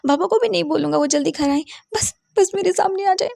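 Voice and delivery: high, rushed bargaining that breaks into a cry; pleading child crying. Acted. Boy bargains with Martha to bring his parents back, crying high. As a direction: promise anything, voice cracking into a sob.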